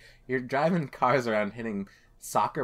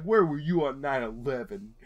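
put-on New York-Boston accent; 2 semitones higher than usual. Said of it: "Quinn's New York, Boston, B M O accent".

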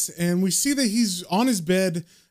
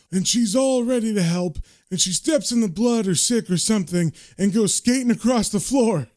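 higher-pitched, animated comic storyteller; Matt joking; 5 semitones higher than usual. Acted. Matt tells John his morbid deathbed joke, high and animated. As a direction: relish the morbid joke in a raised voice. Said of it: "Matt specifically is laughing about how".

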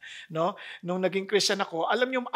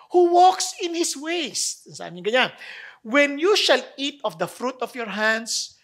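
scripture reading; slower than usual. Acted. Reads psalm aloud.

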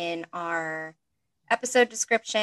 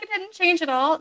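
incredulous; 10 semitones higher, 6 dB louder than usual. Retold or imitated. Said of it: "I'm like".

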